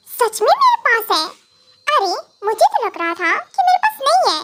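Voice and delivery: wife alone, pleased and laughing to herself; happy young wife. Acted. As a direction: gush to yourself over the husband. (हँसती, खुश पत्नी अकेले में)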